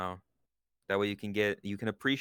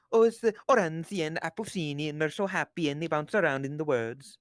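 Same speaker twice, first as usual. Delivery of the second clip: Norwegian stereotype; 5 semitones higher than usual. Retold or imitated. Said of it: "I remember doing that".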